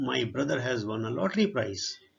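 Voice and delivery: reading the English sentence out word by word, very slowly; slow dictation reading. Shown as a demonstration. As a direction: spell it out slowly for the class. (ਬਹੁਤ ਹੌਲੀ ਹੌਲੀ ਪੜ੍ਹਾਉਣ ਵਾਲਾ ਲਹਿਜਾ)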